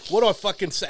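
high, loud, fast and laughing; laughing panic. Real, not acted. Storyteller laughing while retelling his panic. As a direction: rush it out cracking up.

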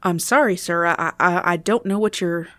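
EMT in a mistaken accent, slightly put on; wrong accent. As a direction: attempt an accent that misses. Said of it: "picked the wrong accent".

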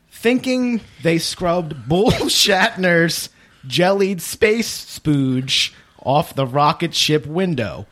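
reading while cracking up; words broken by a laugh; laughing through it. Real, not acted. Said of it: "'Cause you kinda fucking".

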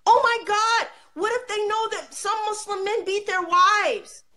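high, fussy mock-fretting voice with a laugh in it; mocking alarmed pearl-clutcher, laughing; mock panic. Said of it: "This is how we think".

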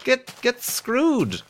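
high, loud yelps of a hurt man; mock pained yelling. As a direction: yelp it out like the headphones stab you. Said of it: "it was like".

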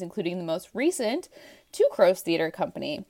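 lightly formal announcer's read; guest introduction. Acted. Co-host introducing theater friend to listeners, measured announcer read. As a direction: read out a bio, building to the guest's name.

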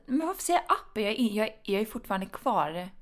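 a hint of a puzzled colleague. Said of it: "men de säger".

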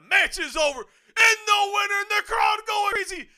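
slow, drawn out championship call; excited announcer call. Real, not acted. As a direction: belt out the winner's name. Calling the win like an announcer.

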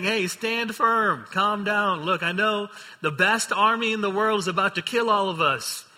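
a leader shouting reassurance above the panic; Moses calling the crowd to calm. Retold or imitated. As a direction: call out over a frightened crowd, steady and bold. Moses calms the screaming crowd.

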